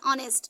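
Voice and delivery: "ऑनेस्ट" opening on a vowel; silent H. Shown as a demonstration. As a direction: say "ऑनेस्ट" without any h. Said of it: "यहाँ का भी एच silent है".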